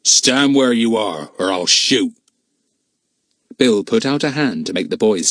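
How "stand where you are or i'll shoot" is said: slow, menacing order; sharp command. A narrator's reading. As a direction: give a sharp, drawn-out threat. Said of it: "a voice came sharply out of the darkness".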